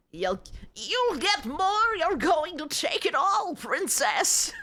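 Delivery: slow, lightly voiced old man. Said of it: "I'm gonna give an old man voice".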